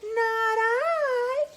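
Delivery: high meowing whine; whiny cat. Shown as a demonstration. Storyteller models the cat's reply for children, high whine. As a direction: turn the meow into high, whiny words. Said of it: "very whiny".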